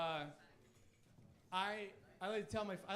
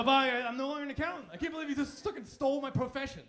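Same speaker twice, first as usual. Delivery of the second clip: louder, whiny robbed accountant; mock outraged victim; 4 semitones higher, 6 dB louder than usual. Robbed accountant complaining to the mugger, loudly indignant. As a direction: play the indignant mugging victim. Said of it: "You go".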